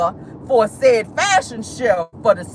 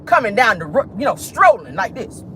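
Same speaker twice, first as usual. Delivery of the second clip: Wanda's saying. Retold or imitated. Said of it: "Uncle Wanda would say".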